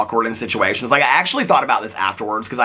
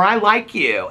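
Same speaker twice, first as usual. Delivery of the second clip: retold gushing fan; 10 semitones higher, much slower than usual. Retold fan's declaration at table.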